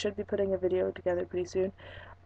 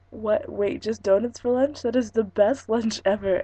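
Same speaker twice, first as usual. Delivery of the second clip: surprised delight; 3 semitones higher, 6 dB louder than usual. Retold or imitated. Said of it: "And I go".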